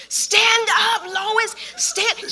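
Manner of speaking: high, calling-out command; mock shout. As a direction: call out to get her attention. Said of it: "everybody's screaming".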